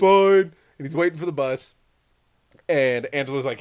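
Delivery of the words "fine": exasperated giving-in. Retold or imitated. Kid gives in, annoyed.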